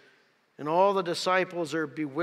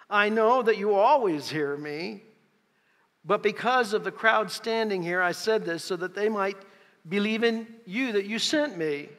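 raised, projected prayer; declaimed prayer; 4 semitones higher, 6 dB louder than usual. Acted. Preacher reads Jesus praying to the Father, loud declaimed prayer. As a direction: pray aloud for a crowd to hear.

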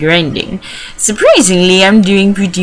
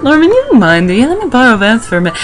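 higher, hammed-up character voice; put-on uncle voice; 6 semitones higher than usual. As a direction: voice a pleading uncle, pitched up. Voicing Wally's uncle asking for Vance.

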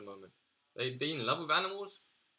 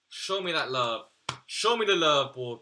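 loud plea; 2 semitones higher, 5 dB louder than usual. Real, not acted. Begging Treyarch for better unlocks, loud plea. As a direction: beg the game loudly for good loot.

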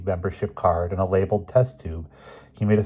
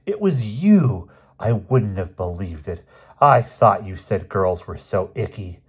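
drawn-out, louder schoolboy accusation; teasing accusation; 4 dB louder, slower than usual. Acted. Boy accusing his friend of the raid, drawn-out and loud.

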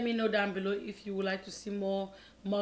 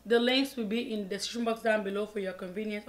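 fast. Shown as a demonstration. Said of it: "I always say that so fast".

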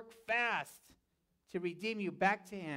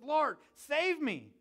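drawn-out, higher cry for rescue; sinking man's plea; 5 semitones higher, slower than usual. Acted. Peter sinking in the water calls to the Lord, pleading cry. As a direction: call out slowly, acting Peter's plea. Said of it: "sinking in the water".

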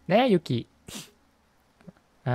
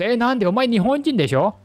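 surprised; 8 semitones higher, 5 dB louder than usual. Real, not acted. Teasing the Japanese character.

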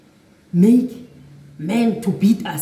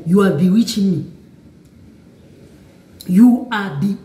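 louder, fast accusing snap; aggressive accusation; 5 dB louder than usual. Retold or imitated. Boyfriend accusing her of witchcraft: mock angry outburst. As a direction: retell his angry accusation quickly. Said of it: "aggressive to me".

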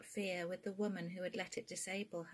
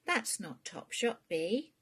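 mum voice; 3 semitones higher, 6 dB louder, slower than usual. Acted. Queenie voiced in reading.

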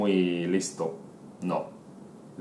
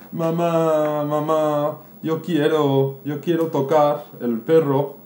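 put-on higher pleading little-boy whine; whining child; 5 semitones higher than usual. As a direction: beg mum like a crying kid. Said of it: "y empieza a llorar". (niño que lloriquea, tono más agudo)

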